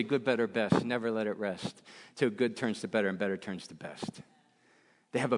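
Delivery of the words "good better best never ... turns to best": lower, softer, through clenched teeth; old coach's motto. Retold or imitated. Coach drilling his players with the motto, low through gritted teeth. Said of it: "I'll say it in the manner in which my coach used to say it".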